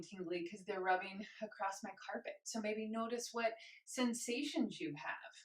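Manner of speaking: slightly breathless after exercise; out of breath. Real, not acted. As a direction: talk while catching breath. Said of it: "I'm a little out of breath".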